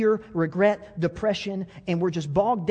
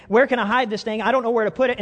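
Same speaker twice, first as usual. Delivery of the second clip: put-on panicky boy; 4 semitones higher, 5 dB louder, faster than usual. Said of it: "he's going".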